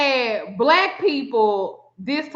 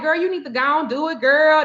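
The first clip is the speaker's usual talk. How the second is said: fast, lightly mocked coaxing; imitated girlfriend talk; 3 semitones higher than usual. Mimicking woman urging her to do show, mock-chummy. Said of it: "that's how the girl talking to me".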